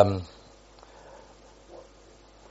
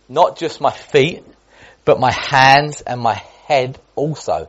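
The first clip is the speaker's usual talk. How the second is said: slow, eager; slower than usual. Acted. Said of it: "Simon Peter replied".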